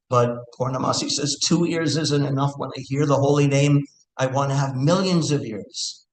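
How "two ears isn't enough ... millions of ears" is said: raised pitch, lightly acted devotional yearning; ardent longing. Teacher voices Purnamasi craving millions of ears, ardent longing. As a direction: voice her eager wish, lifting the pitch.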